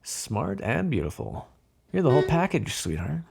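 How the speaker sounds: flirt, stretching out the praise; flirtatious. Acted. Mob boss sweet-talking the detective, flirtatious.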